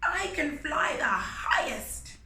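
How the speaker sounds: high, loud eager shout; screaming eagle. Acted. Eagle volunteering to the king, high eager shout. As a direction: shriek it like a bird showing off. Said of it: "Eagle screamed".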